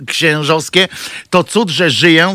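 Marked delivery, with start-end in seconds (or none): 1.3-2.3 mock sigh. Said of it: "wzdycha ksiądz Kazimierz".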